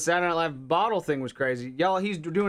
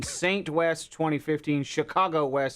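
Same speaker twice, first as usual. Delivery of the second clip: laughing; slower than usual. Real, not acted. Listing Kardashian kids' names.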